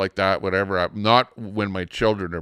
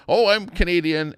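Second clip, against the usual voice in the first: high-pitched mimicry of an interviewee; imitating radio guest; 9 semitones higher than usual. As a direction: repeat her introduction in a lightly mocking high voice. Retelling a radio guest's introduction.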